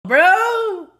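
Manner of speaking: a high laughing bro. Real, not acted. Streamer reacting to the threesome story, laughing out loud. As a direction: crack up as you say it.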